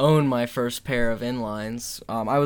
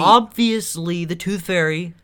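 mock exasperation; 5 semitones higher, 6 dB louder than usual. Host answering who eats the cookies, loudly incredulous. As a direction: stretch it out as if it's blindingly clear.

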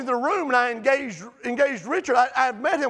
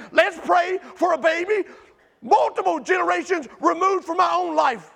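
preaching at full force; 3 semitones higher than usual. Real, not acted. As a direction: lift it like a revival sermon.

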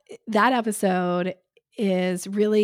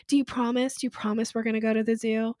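mock childish husband; 2 semitones higher, faster than usual. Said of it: "your husband doesn't say to you".

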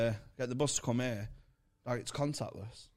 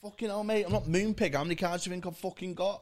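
mock exasperated rant; 7 semitones higher, faster than usual. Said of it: "I went".

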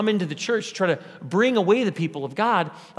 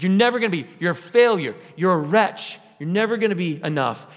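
constant accusing. Acted. Enemy heaping accusations on a believer, insistent and accusing. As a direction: hammer out each accusation in short bursts. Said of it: "This constant accusing".

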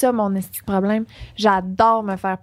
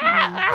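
imitated laugh. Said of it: "En tout cas, le ah".

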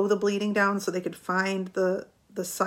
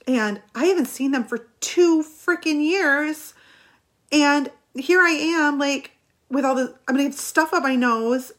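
rising panic, pitch climbing higher and louder to an outburst; panicked rant; 5 semitones higher, 3 dB louder than usual. Retold or imitated. Retelling her hospital panic to viewers, panicked rising rant. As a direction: spiral from worried to a near-cry of disbelief. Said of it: "now I'm panicking".

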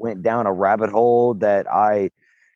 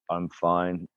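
tag; 5 semitones lower, 8 dB quieter than usual. Retold or imitated. Acting out a drunk giant's nonchalance.

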